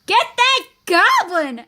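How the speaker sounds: high, drawn-out battle cry; rally the chase, stretching the words; crowd's shout. Acted. Angry crowd shouting after Goblin, high and drawn-out. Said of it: "shouted everyone".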